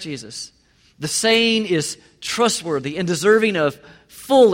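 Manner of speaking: measured, solemn scripture reading. Acted. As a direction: read the verse out with weight. Reads scripture aloud.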